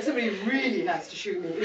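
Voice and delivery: mock plea said through laughter; laughing mock despair. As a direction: joke about wanting out, laughing. Retold misery of marriage.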